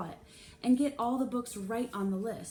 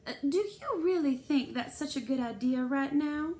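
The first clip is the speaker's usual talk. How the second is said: higher, louder tight voice; darkened challenge; 6 semitones higher, 4 dB louder than usual. A narrator's reading. Mrs Spencer challenges the librarian, barely hiding anger.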